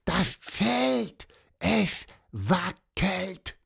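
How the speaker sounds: hohe, gedrängte Pseudo-Flüsterstimme; aufgeregter Vogel. Acted. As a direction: aufgeregt und hoch zischen, nicht wirklich flüstern. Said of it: "flüsterte Pieper". (Pieper warnt Antonius, hoch und gespielt leise)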